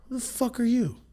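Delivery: jumps way up in pitch, baffled; squeaky disbelief at a stranger; high incredulous question. Retold or imitated. To a stranger at grandma's, a high incredulous "Who the fuck are you?".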